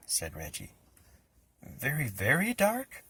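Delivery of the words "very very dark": slow, worried, higher; nervous question. A narrator's reading. Boy asking Reggie slowly and anxiously how dark it gets. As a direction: dread creeping in.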